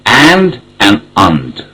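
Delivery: slow "and" with a long vowel, then a reduced "und"; both forms of "and" back to back; strong then weak and. Shown as a demonstration. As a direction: contrast the long "and" with a short "und". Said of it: "they're both correct".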